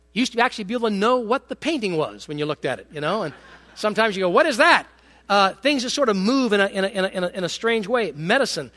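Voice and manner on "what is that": baffled question. Retold or imitated. Puzzled onlooker at modern art.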